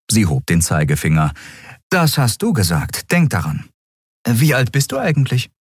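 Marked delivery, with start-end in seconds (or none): 1.9-5.5 higher-voiced woman captain, apologetic; Captain Nagun telling Miko she can't pay. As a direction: break it gently.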